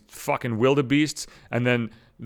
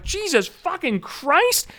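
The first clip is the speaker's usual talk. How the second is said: stunned curse; much slower than usual. Retold or imitated. Reaction to car on fire.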